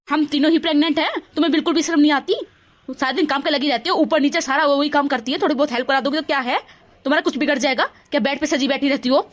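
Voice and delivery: loud, heated scolding; angry quarrel. Acted. Daughter-in-law berating sister-in-law, loud and angry. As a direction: tear into her, full volume.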